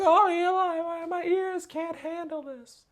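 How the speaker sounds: mock a touchy viewer, high-pitched; high nasal-free mock whine; whiny viewer.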